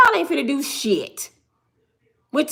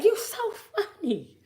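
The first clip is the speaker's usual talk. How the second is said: high, drawn-out laughing voice of an amused crowd; imitated laughing; 10 semitones higher, 7 dB quieter, slower than usual. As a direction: mimic someone cracking up, slow and high. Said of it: "start laughing".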